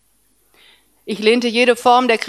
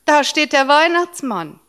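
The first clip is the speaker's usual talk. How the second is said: put-on excited child; 6 semitones higher, 4 dB louder than usual. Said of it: "rief er".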